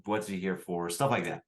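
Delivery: normal talking voice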